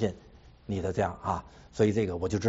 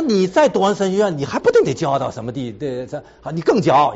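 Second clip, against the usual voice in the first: retold wife's warning; 2 semitones higher, 7 dB louder than usual. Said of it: "他说".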